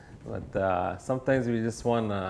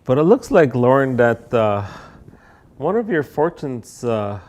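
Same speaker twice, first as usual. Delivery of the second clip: flustered fortune teller, a touch louder; embarrassed fortune teller; 5 dB louder than usual. Acted. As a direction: play a fumbling, apologetic psychic. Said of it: "Embarrassed fortune teller".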